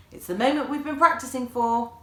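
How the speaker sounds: high, loud eager mum; a mum thrilled to finally perform; eager excitement. A narrator's reading.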